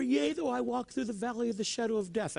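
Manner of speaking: mock anxious praying; imitated fervent prayer. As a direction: recite scripture as if pleading for your life. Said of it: "they're praying fervently".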